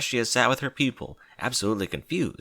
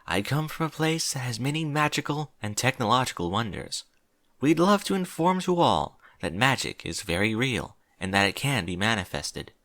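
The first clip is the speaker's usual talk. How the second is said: slightly higher princess voice; lightly voiced regal princess; 4 semitones higher than usual. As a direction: lightly play a princess addressing an assembly. Voices Princess Celestia's speech.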